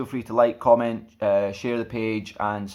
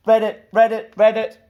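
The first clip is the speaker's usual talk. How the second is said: higher, louder frog croak of read it; 11 semitones higher, 8 dB louder than usual. Acted. Frog jumps onto a book, croaky calls.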